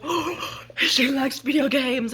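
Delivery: breathy gasp then slow dreamy guy voice; guy impressed, slow and starry-eyed; smitten guy. Retold or imitated. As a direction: swoon over it. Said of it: "he was just like".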